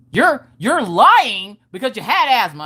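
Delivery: comic insistent arguing; indignant accusation. Retold or imitated. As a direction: draw out the accusation at dad. Acted quarrel with her dad.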